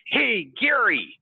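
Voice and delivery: high, slow call across the train; loud high hailing call; retold shout. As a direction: call out his name across the car. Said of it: "she screamed out".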